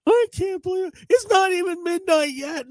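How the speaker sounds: very high-pitched whiny passenger; mock whining. Driver mimics a passenger in the back seat, whining high. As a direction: whine it in a squeaky put-on voice. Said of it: "just giving the whole wine story".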